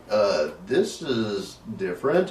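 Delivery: uncertain, with amusement underneath; mock hesitant. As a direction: imitate a puzzled newcomer, drawn out. Voices puzzled visitor at haunted house.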